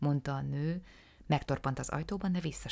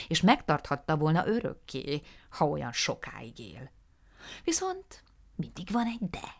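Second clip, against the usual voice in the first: confiding then scandalized, voiced with relish; animated little dealer. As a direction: talk up the dead man's vices with gusto. Ganjin's long account of Jeffrey. (Ganjin élvezettel sorolja Jeffrey bűneit)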